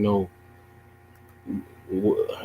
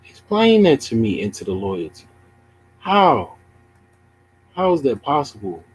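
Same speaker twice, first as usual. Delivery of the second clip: high, pleading disbelief; incredulous how; 6 semitones higher than usual. Real, not acted. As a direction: demand an explanation in disbelief. Streamer incredulous at chat's claim.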